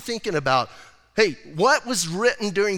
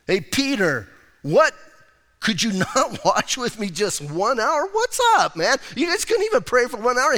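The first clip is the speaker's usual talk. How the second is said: Jesus scolding Peter, half laughing at him; shocked disbelief; 5 semitones higher than usual. Retold or imitated. Jesus catching sleeping disciples, shocked and exasperated. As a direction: voice jumps high in exasperated disbelief. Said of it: "He's a little bit shocked".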